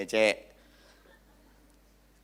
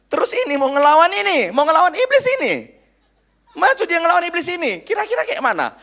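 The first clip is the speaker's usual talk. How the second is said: much higher and louder, driving preaching; fiery preaching shout; 10 dB louder than usual. Real, not acted. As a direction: hurl it at the congregation like a battle cry. Preacher shouting about fighting evil.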